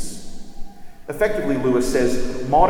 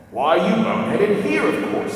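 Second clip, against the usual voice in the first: higher, jeering dwarf voice, slowed on the insult; scornful dwarf; 7 semitones higher, 4 dB louder than usual. A narrator's reading. Diggle mocking the children in the stable, jeering dwarf.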